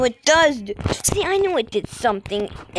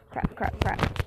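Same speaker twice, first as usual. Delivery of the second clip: being chased; 4 semitones lower, 6 dB quieter, slower than usual. Real, not acted. Being chased, hushed panic.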